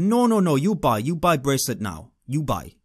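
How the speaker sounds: insistent, badly imitated African accent; horrible African accent. Street seller refusing a no, bad African accent. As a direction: press the sale in a rough African accent. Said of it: "excuse my horrible accent".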